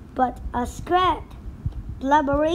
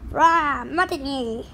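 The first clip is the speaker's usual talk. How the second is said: parrot squawk. Acted. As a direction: parrot crying out.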